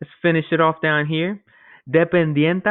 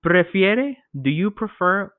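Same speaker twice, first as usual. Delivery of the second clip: salesman asking. Acted.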